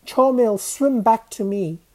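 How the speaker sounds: put-on loud, girlishly high pleading; panicked high wail; high squeaky cry. A narrator's reading. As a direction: call desperately in a squeaked voice. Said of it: "Mahmud's voice squeaked so high he sounded like a girl".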